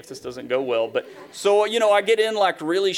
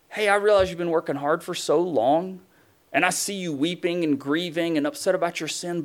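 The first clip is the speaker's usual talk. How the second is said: God speaking gently; 3 semitones higher than usual. Acted. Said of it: "he says".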